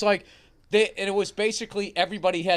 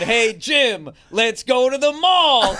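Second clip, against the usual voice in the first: louder, slow Dice-style call; Dice character; 3 semitones higher, 4 dB louder, much slower than usual. Retold or imitated. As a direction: call across the room as Dice. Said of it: "yelling to Jim in this dice character".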